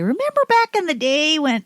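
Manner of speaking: a hint of a little old lady reminiscing. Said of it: "God, I sound like an old lady".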